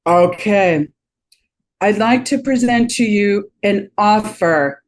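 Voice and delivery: mock a canned sales pitch; lightly voiced stiff pitch. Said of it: "I'm not gonna get all".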